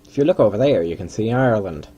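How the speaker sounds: a hint of a mock Irish accent, only half done; put-on Irish accent. Pointing out Ireland to viewers in a faint mock Irish accent. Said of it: "I don't know why I put on that accent".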